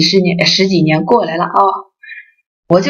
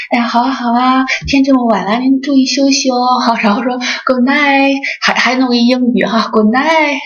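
imitating a gentle, caring tone, pitched higher; mock tender; 5 semitones higher than usual. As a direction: sweetly wish the boss good night, half-hammed. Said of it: "特温柔". (模仿妻子对上司特温柔的语气)

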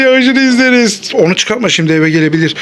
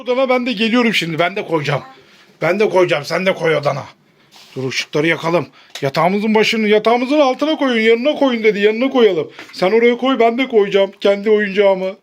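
quiet bedtime voice; 7 dB quieter than usual. Pretend. Bedtime play, hushed.

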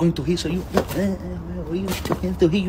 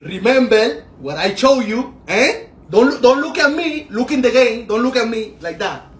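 raised, higher sideline voice; insistent coaching; 3 semitones higher, 4 dB louder than usual. Acted. Father coaching his child during the game, insistent. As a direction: call out orders to the player.

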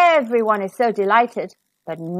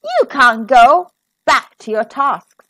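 louder, sharp no; stern refusal; 7 dB louder than usual. Acted. Stepmother forbids Cinderella the ball, stern and loud. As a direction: shut her down firmly.

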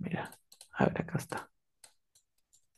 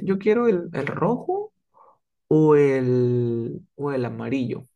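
undecided; slower than usual. Acted. Little brother choosing a toy, unsure what he wants. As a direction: hesitate between options, stretching the second EL. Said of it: "este no sabe ni siquiera lo que quiere".

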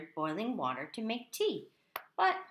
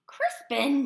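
loud, higher-pitched scolding call; father's shout; 6 semitones higher, 9 dB louder than usual. A narrator's reading. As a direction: shout the name at your son. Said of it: "shouted his father".

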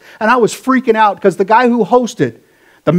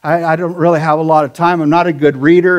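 whiny excuse; 3 semitones lower than usual. Retold or imitated. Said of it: "not like".

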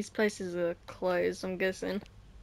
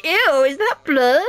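high, fast squeamish officer; high, quick disgusted cop voice; mock squeamish cop; 4 semitones higher, 6 dB louder than usual. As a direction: play the cop as squeamish and grossed out. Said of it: "Is the police officer going".

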